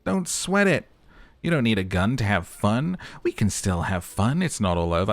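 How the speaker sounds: a cheeky necktie cheering him up; talking necktie. Acted. The necktie cheers up the gunless cop, lightly voiced and chirpy.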